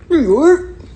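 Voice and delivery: loud, high, exaggerated New York shout; big high-pitched holler; hometown shout. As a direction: shout it out for your city. Shouts the answer out proudly.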